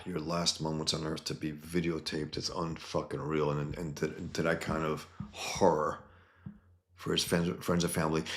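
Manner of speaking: hushed grief over the killing; hushed and somber. Real, not acted.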